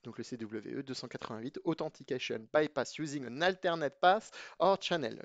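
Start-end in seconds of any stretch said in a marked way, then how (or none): 1.6-5.2 French speaker putting on a light English accent. Shown as a demonstration. Teacher reading a vulnerability name to his students in a light English accent. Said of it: "J'espère que vous aimez bien mon accent anglais".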